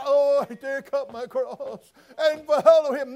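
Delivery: drawn out with fake piety on "follow"; mock pious. Shown as a demonstration. Preacher mocking half-hearted believers, slow sanctimonious sing-song.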